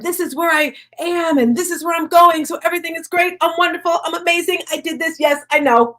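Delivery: high-pitched mock self-congratulation; boastful speaker. Mimicking speakers who share only the good, mock boastful. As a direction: imitate a speaker showing off, pitched well up.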